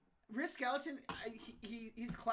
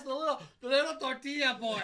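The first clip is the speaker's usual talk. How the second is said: loud, laughing while talking; cracking up mid-sentence; 5 semitones higher, 10 dB louder than usual. Real, not acted. Recalling comedy bit, laughing.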